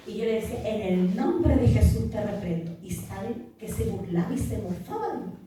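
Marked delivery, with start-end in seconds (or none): 0.7-2.8 retold rebuke, firm and louder; reprensión retomada. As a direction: rebuke with raised, commanding force. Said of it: "yo empezaba a reprenderlo". (reprensión firme, con voz más fuerte)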